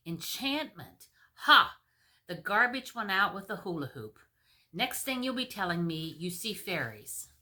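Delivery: scornful king with a loud Ha; mock the very idea; king scoffing at the queen.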